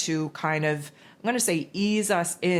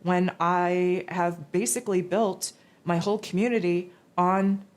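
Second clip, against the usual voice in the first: exasperated protest; 3 semitones higher than usual. Retold or imitated. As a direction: protest in disbelief. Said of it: "And I say".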